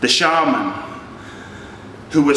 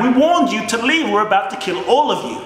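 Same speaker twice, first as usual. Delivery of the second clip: threatening bandits; 6 semitones higher than usual. Retold or imitated.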